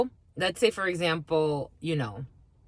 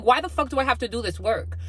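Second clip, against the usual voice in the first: mock exasperated complaint; 5 semitones higher than usual. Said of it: "And I don't even say it like that".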